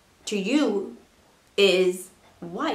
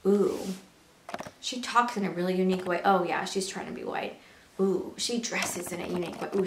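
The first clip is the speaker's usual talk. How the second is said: mock judgmental gossip; 4 dB quieter than usual. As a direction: murmur it like passing judgment behind her back. Voicing judgmental people she disagrees with.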